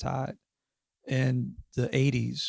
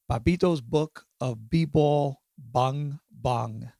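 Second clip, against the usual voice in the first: slow, deliberate title announcement; slow title read; much slower than usual. Shown as a demonstration. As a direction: spell out the title slowly. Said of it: "I can't say it without laughing".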